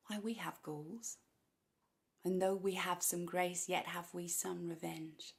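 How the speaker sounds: measured, restrained verse speaking; controlled classical stage delivery; Shakespearean monologue. Acted. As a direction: speak the verse deliberately, with pauses.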